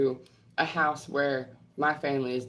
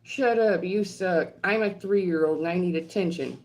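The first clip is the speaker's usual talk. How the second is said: mocking troll voice; 2 semitones higher than usual. Vlogger mocking an internet troll, whiny bratty voice. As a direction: sneer it like a needy toddler. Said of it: "I just read something saying".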